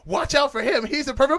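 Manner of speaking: warning voice. Retold or imitated. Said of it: "she turns to the kid and she's like".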